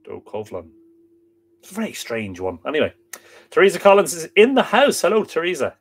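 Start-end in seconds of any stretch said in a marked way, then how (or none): 0.1-0.7 "Docovlon" settled on softly, with a v sound; low, soft "Docovlon", v in the middle; alternative pronunciation. Shown as a demonstration. Reader settling on an Irish word, alternative pronunciation. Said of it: "Or is that Doco".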